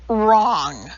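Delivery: the word Wrong barked out loud and high; a forceful one-word outburst that makes people jump; sudden loud repeat. A narrator's reading.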